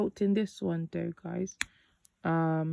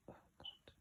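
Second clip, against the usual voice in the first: under-breath whisper; 31 dB quieter than usual. Real, not acted. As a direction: breathe it out softly. Whispered aside.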